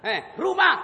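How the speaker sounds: high, loud questioning; loud interrogation. Acted. Angel interrogates the poor maid loudly. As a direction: fire the question at her.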